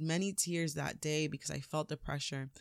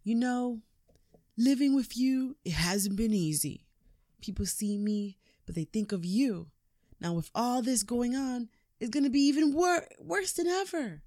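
high, rising voice that gets louder toward the end; confronting son; 6 semitones higher, 4 dB louder than usual. Retold or imitated. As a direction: push the son's complaint higher and louder until it peaks. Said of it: "is pretty much confronting him and saying to him".

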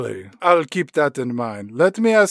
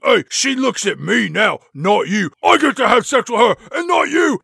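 building to a higher, louder shout; screaming Hyde; 6 semitones higher, 3 dB louder than usual. Retold or imitated. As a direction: yell it in jealous triumph. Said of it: "Hyde screaming at Jekyll".

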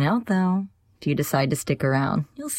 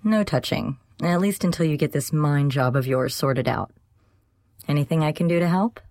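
earnest, higher roommate voice; mildly serious character voice; serious, thoughtful; 7 semitones higher than usual. A narrator's reading. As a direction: offer help in earnest. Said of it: "Her expression was serious and thoughtful".

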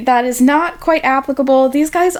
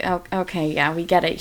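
low, softer dismissive aside; mock unimpressed; 4 semitones lower, 6 dB quieter than usual. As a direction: brush it off under your voice, lower. Mock weary reaction to token heroines.

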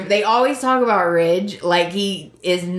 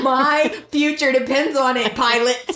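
higher-pitched, lightly hammed-up urgency; mock-dramatic plea; 4 semitones higher than usual. Passenger begging pilot to hurry, mock-dramatic plea. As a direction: plead with the pilot in playful melodrama.

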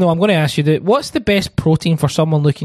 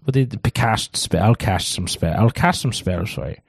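lower, loosening tipsy manager voice; getting drunker; 5 semitones lower than usual. Acted. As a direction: play it like the drinks are kicking in. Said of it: "He's getting drunker and drunker".

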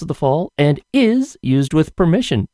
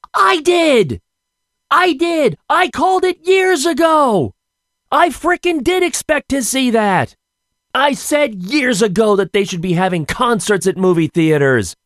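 indignant outburst; 11 semitones higher than usual. Real, not acted. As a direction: shout it out like you were robbed of credit.

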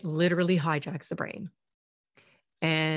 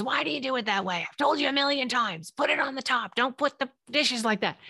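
scolding and higher, a spouse picking at how the dishes go; nagging spouse; 6 semitones higher than usual. Retold or imitated. Spouse scolding a partner unloading the dishwasher, mock exasperated. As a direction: nag them like a fed-up spouse who's told you a million times. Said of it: "your spouse comes in and says".

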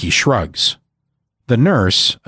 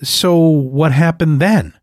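small hopeful voice; 5 semitones higher, slower than usual. Acted. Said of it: "asks in a small, hopeful voice".

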